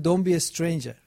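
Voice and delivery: English phrase in a light put-on British accent; a touch of British English; mock British. Shown as a demonstration.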